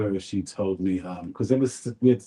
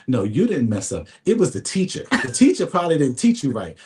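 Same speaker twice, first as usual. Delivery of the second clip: doting mother; 5 semitones higher, 5 dB louder than usual. Retold or imitated. Mother's reassurance voiced in story.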